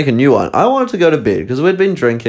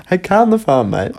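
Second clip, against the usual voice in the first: mock Charlie teasing; 9 semitones higher than usual.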